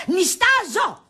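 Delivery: irritated, stretched exclamation; exasperated outburst. Acted. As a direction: hammer it home, out of patience. Repeats complaint more forcefully.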